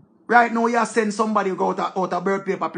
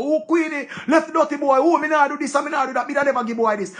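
higher pitched mock whining quote; mock whiny complaint; 6 semitones higher than usual. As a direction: whine it like the complainer, hammed-up. Mocking Queenie's complaints.

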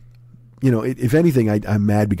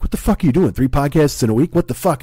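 mildly indignant, pitched-up scolding; indignant body; 5 semitones higher than usual. Acted. His body scolds him for three podcasts, mildly indignant. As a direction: scold in a higher, put-upon voice.

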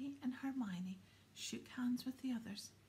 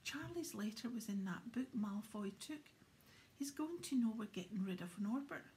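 panicked; 4 semitones higher than usual. Acted. Ron in the hospital bed panicking about the letter, alarmed. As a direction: sound suddenly alarmed and worried.

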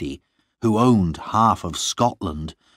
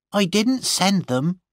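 very high-pitched servant's voice; defiant servant; 12 semitones higher than usual. A narrator's reading. Gwenny confessing to her mistress, high defiant voice.

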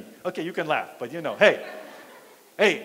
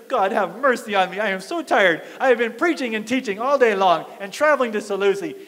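worn-out complaint to God, pitched up; exasperated, higher-pitched venting; frustrated plea; 3 semitones higher than usual. Retold or imitated. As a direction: grumble a retold prayer in exasperation. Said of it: "I'm getting frustrated".

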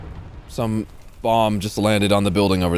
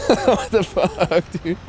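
stunned disbelief; 7 semitones higher, much slower than usual. Real, not acted. Drawn-out disbelief.

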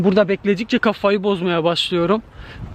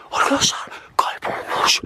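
scared whisper. Real, not acted. Ghostly figure vanishes.

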